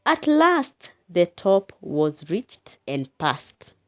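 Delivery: slow, measured recitation; poem reading. Shown as a demonstration. Teacher reading the poem line to pupils, slow recitation. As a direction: read the line slowly like a poem. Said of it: "We go to the third stanza".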